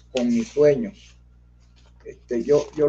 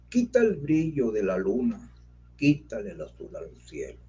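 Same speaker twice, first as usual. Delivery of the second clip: declaimed poem. Acted. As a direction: declaim it like a stage poet. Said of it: "te voy a declamar".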